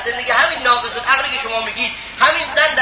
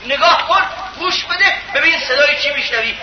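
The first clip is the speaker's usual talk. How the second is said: urgent command; 3 semitones higher than usual. Retold or imitated. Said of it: "گفت که".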